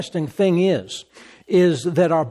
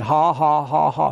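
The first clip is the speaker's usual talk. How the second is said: even spoken ha-ha-ha; imitated laugh. Brother Hagin laughing again at the devil, imitated laugh. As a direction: mimic a deliberate laugh. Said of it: "I started laughing, just laughing again".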